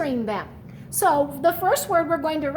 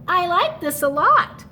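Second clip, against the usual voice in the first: louder, pleased snowman; said with a smile; 5 semitones higher, 5 dB louder than usual. Acted. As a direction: smile through the words. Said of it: "He said with a smile".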